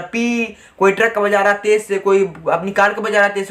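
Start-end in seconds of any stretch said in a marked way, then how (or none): 0.0-0.6 mock horn beep, held out; lightly voiced horn honk; imitated bike horn. Shown as a demonstration. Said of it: "कोई अपनी bike का horn बजा रहा है".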